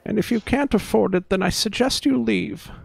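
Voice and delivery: irritated, pitched well up. Acted. Barmaid telling customers to leave if they can't pay, irritated. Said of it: "much more irritated, uh, tone".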